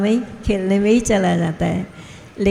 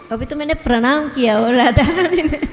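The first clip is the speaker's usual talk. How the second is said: higher, giggly quoted voice; laughing retelling; 5 semitones higher than usual. Retold or imitated. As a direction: quote him while starting to laugh. Retells devotee's comic surprise, laughing. (हँसी के साथ, ऊँची आवाज़ में)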